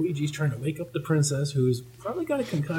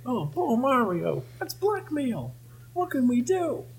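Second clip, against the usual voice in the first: high, mock-distressed falsetto; hammed-up high-pitched woe; dismayed cartoon character; 11 semitones higher than usual. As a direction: lament it in a put-on cartoon voice. Retelling a dismayed cartoon character's lament.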